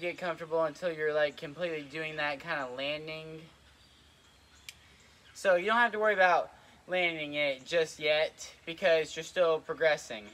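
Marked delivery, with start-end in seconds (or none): 5.3-10.3 breathless, panting between words; out of breath. Real, not acted. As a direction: talk while still catching your breath. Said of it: "I don't know why I'm out of breath".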